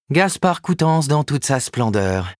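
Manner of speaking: mock him slowly and ironically; sarcastic retort. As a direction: agent mocking the writer's grumpiness, slow and sarcastic. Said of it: "rétorqua-t-elle".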